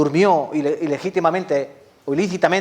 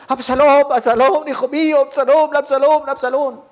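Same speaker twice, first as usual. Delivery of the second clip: high-pitched, hammed-up weeping lament; imitating loud, high sobbed cries; mock wailing; 10 semitones higher, 4 dB louder than usual. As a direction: wail like a grieving father, theatrically. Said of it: "Luego el rey David lloró mucho".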